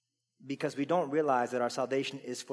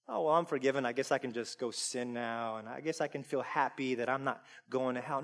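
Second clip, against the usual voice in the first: indifferent mock; 2 semitones lower, 6 dB quieter than usual. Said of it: "As opposed to".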